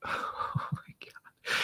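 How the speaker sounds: hushed, slow disbelief; stunned whisper. Retold or imitated. Father hearing his cross necklace broke, whispered shock. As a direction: barely voice it, slowly, in shock.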